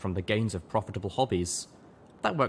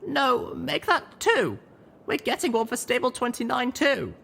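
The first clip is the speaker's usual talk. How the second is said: scowl and insist; 4 dB louder than usual. A narrator's reading. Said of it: "I scowled".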